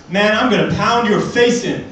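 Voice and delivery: a hint of a drunk bloke picking a fight; threatening guy. Comedian imitating a man threatening him over a kebab, mock tough. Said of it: "and he goes".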